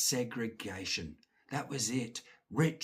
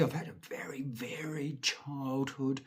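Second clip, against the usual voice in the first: whispered aside; 7 dB quieter than usual. Real, not acted. Ironic aside.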